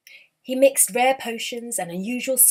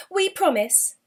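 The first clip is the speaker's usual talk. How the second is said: sly promise; 6 semitones higher than usual. Acted. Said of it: "they said, giggling".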